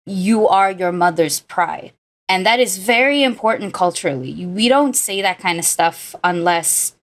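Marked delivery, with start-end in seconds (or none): 0.0-1.9 sincere. Retold or imitated. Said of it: "actually she says".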